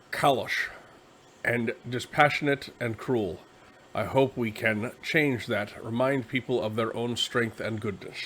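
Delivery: put-on a rough, half-hearted Scottish accent that drifts as it goes; crappy Scottish accent. Reading the rulebook quote to viewers in a crappy Scottish accent. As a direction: read the quote in a bad Scottish brogue. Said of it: "I have to do this quote in a Scottish accent".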